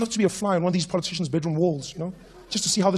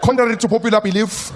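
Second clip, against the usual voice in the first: slow pompous politician. Retold or imitated. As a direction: drag out every formal phrase. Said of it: "Politician having a good time".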